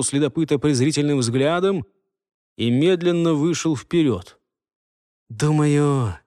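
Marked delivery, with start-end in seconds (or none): 5.3-6.2 confident. Acted. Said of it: "уверенным голосом произнёс он".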